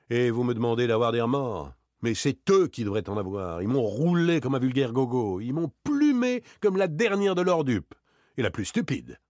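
wounded pride, building to a high outburst; angry, resentful. Acted. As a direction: vent your grudge at being duped. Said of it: "Une réelle colère l'agitait, faite de rancune". (colère pleine de rancune)

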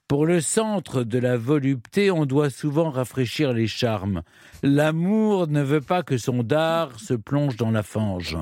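slightly prudish madam, drawn-out phrases; lightly voiced brothel keeper, slow and measured; Madame Gourdan. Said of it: "l'accent que vous prenez pour imiter Madame Gourdan". (imitation légère d'une mère maquerelle un peu prude)

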